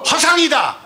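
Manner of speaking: high, loud 허상이다 with a laugh; laughing preacher's shout; shouted punchline. Real, not acted. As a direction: bellow the verdict.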